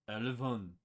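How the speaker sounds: "Elevon" said as Novale reversed, EL-eh-von; backwards speech. Shown as a demonstration. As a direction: sound out "Elevon", the town name read backwards. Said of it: "would be Novale".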